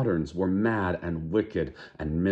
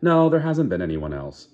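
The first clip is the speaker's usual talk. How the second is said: truculent; 2 semitones higher, 5 dB louder than usual. Acted. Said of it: "she answered almost truculently".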